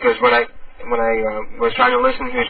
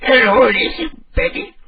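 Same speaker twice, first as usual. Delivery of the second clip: put-on little old lady; slower than usual. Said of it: "one more little old lady call".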